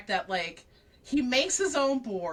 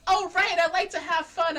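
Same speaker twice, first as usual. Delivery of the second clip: much higher and louder, joyful; gleeful realization; 8 semitones higher, 7 dB louder than usual. Retold or imitated. Reiki racing recklessly, gleeful mock cheer. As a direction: burst out with happy discovery. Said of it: "but he's like".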